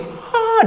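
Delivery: high short mocking "hah"; imitating a teasing laugh. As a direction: scoff with one high burst of laughter.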